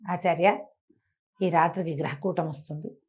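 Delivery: low, soft secret warning; softly urgent plea to the master; hushed warning. Acted. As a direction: keep it down so the thieves don't hear. Disciple secretly warns guru.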